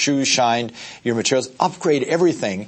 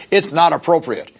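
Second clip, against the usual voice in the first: higher, louder stern verdict; a touch of a scolding organizer; mild mock disapproval; 5 semitones higher, 3 dB louder than usual. Organizer rejecting tennis shoes, sternly disapproving. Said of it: "He goes".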